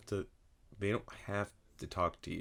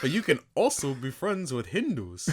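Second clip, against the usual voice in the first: higher, loud shouted parody; mock shout; 8 semitones higher, 8 dB louder than usual. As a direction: yell his friend's words as a joke. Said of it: "That's you".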